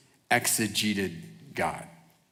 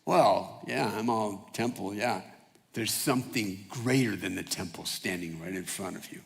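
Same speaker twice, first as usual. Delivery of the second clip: lower, much softer, matter-of-fact; Jesus quoted softly; 5 semitones lower, 7 dB quieter than usual. Retold or imitated. Jesus telling the crowd, low and soft. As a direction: say it quietly, almost offhand. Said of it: "Jesus said crazy stuff like this".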